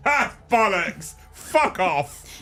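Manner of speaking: high, loud scoffing outburst; loud disbelief. Real, not acted. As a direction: explode in banter disbelief. Host loudly rejects the fact.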